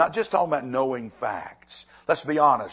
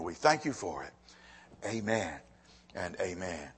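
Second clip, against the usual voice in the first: low, earnest prayer voice; 3 semitones lower than usual. Acted. Pastor leading the congregation in prayer, earnest.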